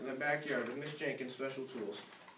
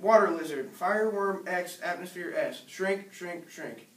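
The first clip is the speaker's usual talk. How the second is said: shouted spell; 2 semitones higher, 4 dB louder than usual. Acted. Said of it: "He shouted".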